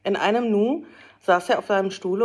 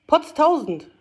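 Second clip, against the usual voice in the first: loud, higher cry of surprise; surprised exclamation; 8 semitones higher, 6 dB louder than usual. A narrator's reading. Fritz spotting Scrooge at the door, loud surprised call. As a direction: blurt it out in astonishment. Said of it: "rief Fritz".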